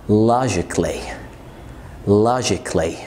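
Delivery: logically said as "lojik-lee"; logically with the a silent; correct pronunciation. Shown as a demonstration. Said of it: "مش logically". (logically من غير الـ a)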